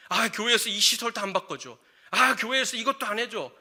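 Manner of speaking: acted-out churchgoer's griping; grumbling complaint. Churchgoer complaining about church facilities, mock grumbling. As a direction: whine mockingly about what's lacking. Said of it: "자꾸 불평할까요".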